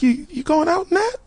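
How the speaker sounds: high disapproving mom voice. Retold or imitated. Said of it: "one day she was like".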